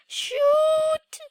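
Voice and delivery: high, loud frustrated yelp. Real, not acted. Gamer missing a jump, yelping. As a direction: blurt it out in dismay. Fails in game, exclaims.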